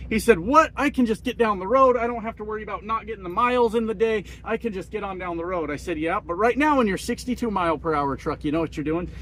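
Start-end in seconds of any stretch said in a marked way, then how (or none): 0.4-5.7 higher-pitched mock disbelief; incredulous retort. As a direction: imitate a friend protesting in surprise. Friend retorts in retold exchange.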